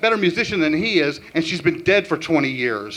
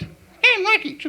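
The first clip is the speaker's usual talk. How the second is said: laughing; slower than usual. Real, not acted. Breaking into laughter.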